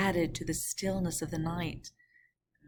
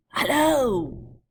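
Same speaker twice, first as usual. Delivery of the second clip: higher, loud hail; guard calling; 7 semitones higher, 8 dB louder than usual. Acted. Guard hailing the coachman, loud and high. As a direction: call back down the coach. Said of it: "the guard replied".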